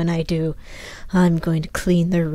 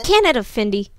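snapped. Acted. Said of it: "snapped Jacqueline".

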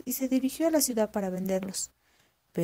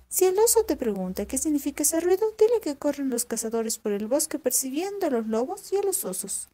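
voz de zorra aguda y viva, más alta; zorra astuta; 5 semitones higher, 3 dB louder than usual. Acted. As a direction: una zorra lista que pregunta con curiosidad. (la zorra pregunta al campesino asustado, voz aguda y curiosa)

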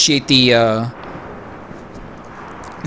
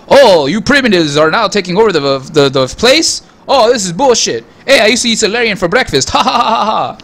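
mock villain gloat ending in a mock cackle, pitched higher; hammed-up Javik; 4 semitones higher than usual. Streamer playing Javik mocking the primitives, hammed-up gloat. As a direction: ham up a sneering alien who laughs at the end. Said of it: "sounds like a freaking Transylvanian evildoer".

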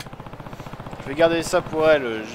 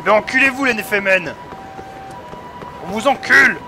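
angry insult; 5 semitones higher, 3 dB louder than usual. Real, not acted. Streamer raging at game characters.

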